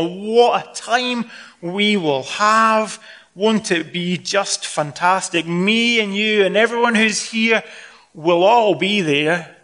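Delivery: slow, drawn-out gushing, lightly hammed-up; mock effusive agreement. Jesus imagined agreeing with the smug guest, mock effusive. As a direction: agree grandly, lingering on the words. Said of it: "Jesus should have said".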